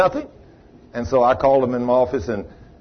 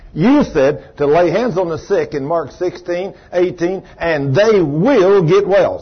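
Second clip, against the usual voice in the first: healing prayer; 3 semitones higher than usual. Acted. Preacher praying over Edith's arms, building to fervour.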